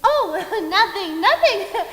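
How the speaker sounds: loud laughing dismissal; laughing brush-off. Acted. Death covering a slip about dying, laughing it off. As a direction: laugh it off loudly, as if it were nothing.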